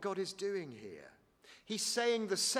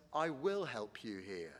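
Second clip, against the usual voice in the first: patient reassurance; 7 semitones lower, 3 dB quieter than usual. Acted. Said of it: "God patiently reassures him and says".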